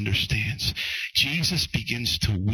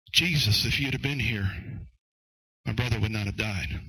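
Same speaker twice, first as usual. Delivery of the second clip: matter-of-fact address to Jesus, then falling away; first approach, Martha's. Acted. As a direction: state the complaint straight out to Jesus. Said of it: "the first approach was".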